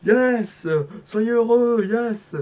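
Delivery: loud, high whoop of joy; excited cheer. Real, not acted. Streamer whooping at the game, loud and high. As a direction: cheer it out like a win.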